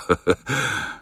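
a short, soft mocking chuckle. Director laughing at the fake Japanese, softly. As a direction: chuckle quietly at him.

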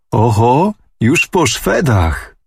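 casual, slow toss-off of "już po Szwedach"; offhand exclamation. A narrator's reading. Anusia telling the old man the news, airily nonchalant. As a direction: call it out as if it were nothing. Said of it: "zawołała z niechcenia".

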